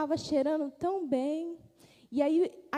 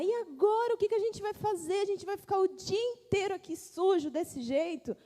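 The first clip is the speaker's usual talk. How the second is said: worried complaining dishes; 5 semitones higher than usual. Acted. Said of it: "todo mundo começou a reclamar".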